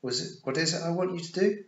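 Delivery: teacherly, sing-song question; coaxing quiz. A narrator's reading. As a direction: get the little one to repeat it. Sister quizzing a small child.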